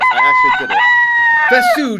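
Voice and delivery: very high squeak of joy; squeaky voice. Pretend. Streamer squealing in a cartoon-high voice over finishing.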